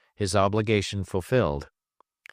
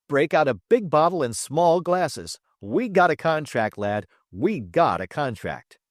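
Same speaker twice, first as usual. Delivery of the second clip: gleeful, pitched-up cheer; triumphant; 6 semitones higher than usual. Acted. Travis rushes out, cheering to Trip. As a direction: celebrate the win.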